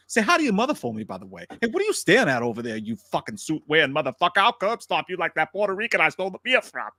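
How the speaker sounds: tough-guy star impression, picking a fight; Wahlberg. Co-host confronting a man in the subway line, menacing Wahlberg impression. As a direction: threaten a stranger in a Boston tough-guy act. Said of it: "Could I get a Wahlberg".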